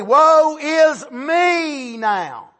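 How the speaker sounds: drawn-out, crying woe; mock lament. Barak crying out to God in despair, a drawn-out wail. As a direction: stretch the woe into a cry.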